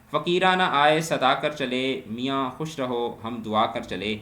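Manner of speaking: slow, measured verse reading; poem recitation. Acted. Teacher reciting a couplet to the class, slow. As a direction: recite the couplet slowly, line by line.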